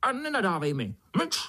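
high, shrill-pitched scolding; scolding beetle. Acted. Beetle scolds the ant inside her. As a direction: shut him up, cross and squeaky.

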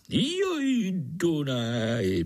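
high sigh then falling, homesick; long for the river; wistful sigh. Acted. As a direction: homesick mosquito. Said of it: "posteskl si".

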